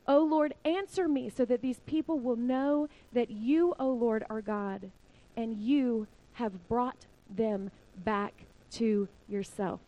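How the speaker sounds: deliberate prayer, slowing toward the end; calm prayer. Retold or imitated. Elijah asking God to answer him, calm prayer. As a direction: imitate an unhurried prayer, spacing out the last words. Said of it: "just one calm prayer".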